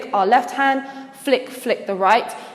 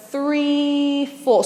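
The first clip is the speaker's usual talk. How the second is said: drawn-out "three", falling "four"; counting out beats; 3 semitones higher than usual. Shown as a demonstration. Dance teacher showing three four, slow counting. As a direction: stretch the count to the move. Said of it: "we're gonna go".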